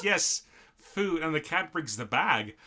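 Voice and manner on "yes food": high, eager cartoon cat; a delighted cat finally gets fed; excited cat voice. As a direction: squeal it like a hungry cat. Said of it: "the cat's like".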